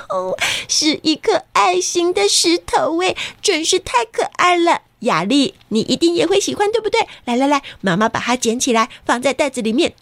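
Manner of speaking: high cheerful mom voice; delighted, quick mom chatter; excited. Acted. Mother voiced in story.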